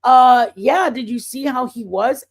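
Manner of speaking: loud, protesting opening; mildly indignant retort; frank talking back. Retold or imitated. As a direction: argue back as if to a familiar confidant. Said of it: "that's how I talk to him".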